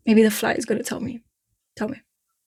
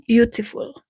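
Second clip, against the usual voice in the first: playful Eastern European accent on one word; slower than usual. Shown as a demonstration. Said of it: "Eastern European accent".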